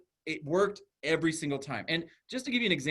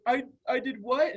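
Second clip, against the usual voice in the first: put-on high, questioning little-girl voice; baffled child; 10 semitones higher, 4 dB louder than usual. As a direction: imitate a kid caught by surprise.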